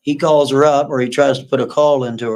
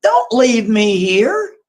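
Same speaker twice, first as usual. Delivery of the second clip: frightened plea; 10 semitones higher, 4 dB louder, slower than usual. Retold or imitated. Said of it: "She's like".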